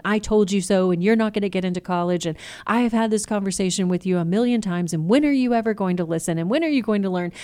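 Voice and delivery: a fed-up parent piling it on; nagging rant. Pretend. Nagging teen, contrasted conversation.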